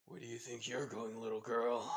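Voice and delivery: put-on creepy villain taunting a little girl; sinister villain voice. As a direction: put on a menacing voice that creeps you out. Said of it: "not gonna do that voice again".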